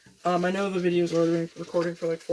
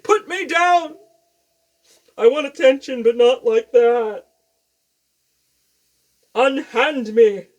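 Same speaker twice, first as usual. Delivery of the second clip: higher, louder huffy cat voice, slowing at the end; grumpy cat voice; 5 semitones higher, 9 dB louder, slower than usual. Pretend. Owner voicing her grumpy cat, higher and louder. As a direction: voice the cat as an offended diva. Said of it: "She's like".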